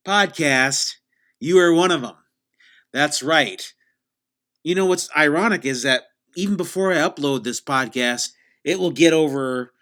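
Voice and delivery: loud, emphatic host bragging; tongue-in-cheek boasting, projected loudly; mock-boastful host. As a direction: proclaim absurd popularity with full confidence. Mock boasting in show intro.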